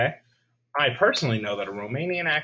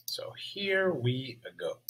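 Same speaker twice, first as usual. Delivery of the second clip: hushed whisper; 6 dB quieter, slower than usual. Real, not acted. Teacher starting the lesson.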